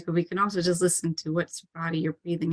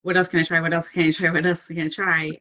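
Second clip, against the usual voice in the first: rapid repeated urgent questioning; urgent survival mode. Acted. Coach voicing someone in a crisis, mildly urgent. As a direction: fire off each question with mild urgency. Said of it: "you're just so motivated to survive".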